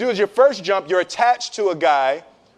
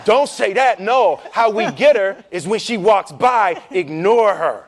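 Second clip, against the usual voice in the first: voice of fear. Retold or imitated. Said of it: "So fear tells you".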